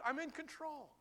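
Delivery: high, ringing declaration; triumphant promise; emphatic. Acted. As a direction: proclaim it boldly. God's words, high emphatic take.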